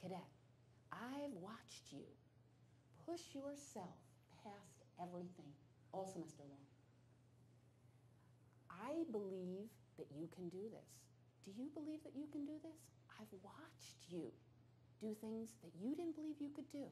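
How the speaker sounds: soft, quiet voice. Retelling an instructor's final words to a cadet: imitating someone speaking softly. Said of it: "he got really tiny".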